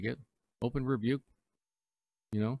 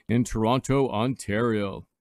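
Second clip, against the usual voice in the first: radio announcer; 6 dB louder than usual. Real, not acted. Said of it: "we are broadcasting live from".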